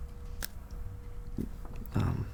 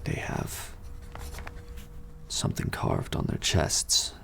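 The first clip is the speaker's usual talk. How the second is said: whispered; 4 semitones lower, 6 dB quieter than usual. Acted. Whispered gossip continues.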